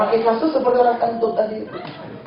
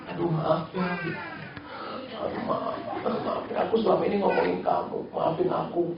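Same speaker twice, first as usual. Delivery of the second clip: mock apology; 10 dB quieter than usual. Apologising to the one you gossiped about.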